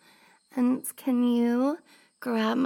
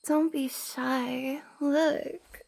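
put-on raised girly voice; much slower than usual. Shown as a demonstration. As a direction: lift the voice a little, coy and slow. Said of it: "Maybe I should raise my voice".

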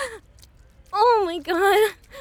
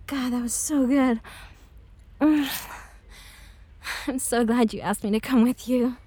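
tender afterglow; 4 semitones lower than usual. Acted.

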